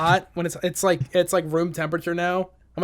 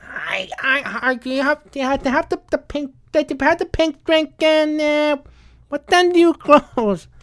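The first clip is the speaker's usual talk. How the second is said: mock caller; 9 semitones higher, 6 dB louder than usual. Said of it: "mock customer".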